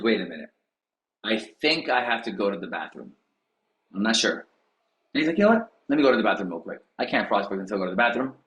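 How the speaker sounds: low, stalling mock voice; mock stalling agent. Tom avoiding calls, low stalling mock voice. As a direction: invent excuse after excuse. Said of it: "he goes".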